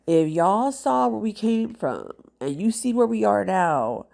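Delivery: stuffy blocked nose; talking through congestion; congested. Real, not acted. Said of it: "I am so congested".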